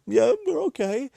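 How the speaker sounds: very high, mock-tearful child voice; squeaky, put-on brave little voice; tearful kids. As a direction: imitate small children wiping away tears. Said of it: "the wiping the tears".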